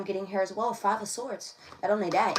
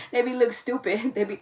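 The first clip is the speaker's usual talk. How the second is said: mock slang line; 3 semitones higher, 6 dB louder than usual. Shown as a demonstration. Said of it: "do you see how I'm talking?".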